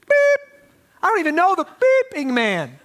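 high, loud mock curse with a bleep; hammed-up cursing Peter; mock censored swearing. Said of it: "Is he just cursing?".

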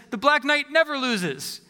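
a hint of a proud boast, slow; slow, stubborn boast in his own voice; Black Knight boasting. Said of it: "The Black Knight says".

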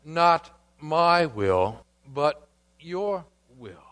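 surrender your will, slowly, letting it fade; submissive second Adam. Acted. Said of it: "the second Adam, in the second garden, says".

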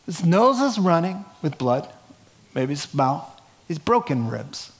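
lightly played pleading apostle; begging for the mic, half-joking; a hint of a bloodied man begging to speak; mildly voiced eager Paul. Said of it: "He says".

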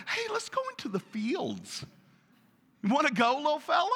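high, sing-song invitation to a little brother; falsely friendly coaxing. Acted. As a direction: lure him along with fake cheer. Cain luring his brother, acted.

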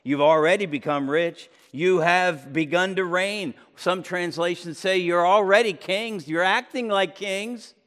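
mock congratulation, lightly sarcastic. Paul mocking the Corinthians' kingly pride, with sarcasm. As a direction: needle them for thinking they have it all. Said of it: "this is the sarcasm".

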